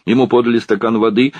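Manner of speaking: ordinary delivery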